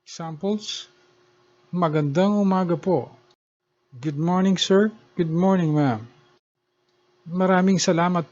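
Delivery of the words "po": "po" cut off with a closed throat; "po" ending in a glottal stop. Shown as a demonstration. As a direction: close your throat right after the vowel of "po". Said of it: "the throat is closed at the end".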